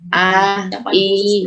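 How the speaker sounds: held "A, i" with a firm glottal onset; pressed hamzah. Shown as a demonstration. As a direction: press the start of "A" and "i". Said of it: "Dia punya naber tersendiri atau tekanan".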